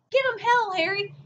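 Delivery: hammed-up hollering from the crowd; crowd cheer. Supporters cheering Truman at his speech, mock yelled. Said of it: "people are whooping and hollering".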